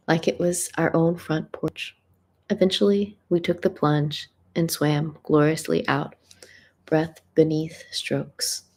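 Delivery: measured spoken-word delivery with pauses; deliberate recital, letting each phrase land; poetry reading. Real, not acted. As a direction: read your own poem aloud, phrase by phrase. Reads own love piece aloud.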